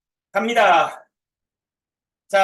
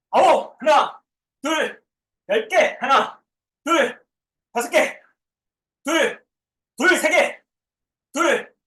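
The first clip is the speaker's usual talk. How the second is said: gym coach; 3 semitones higher than usual. Real, not acted. Counting reps during workout.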